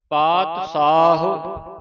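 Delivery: ਸਾਹੁ said with a short u at the end, sa-hu; ਪਾਤ ਸਾਹੁ, closing ਸਾਹੁ on a clear u; teacher demo of ਸਾਹੁ ending in u; careful pronunciation. Shown as a demonstration. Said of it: "ਹਾਹੇ ਨੂੰ ਔਂਕੜ ਲੱਗਾ ਹੈ".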